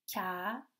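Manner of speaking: long pauses between the beats of CANAPÉ; split into syllables. Shown as a demonstration. Teacher confirms three syllables, CANAPÉ in separate beats. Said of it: "il y a trois syllabes".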